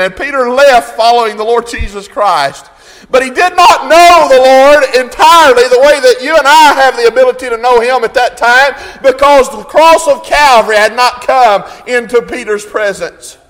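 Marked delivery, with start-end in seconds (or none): 3.1-13.4 loud, driving pulpit delivery; impassioned sermon cadence; full-force preaching. Real, not acted. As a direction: preach it with rising fervour.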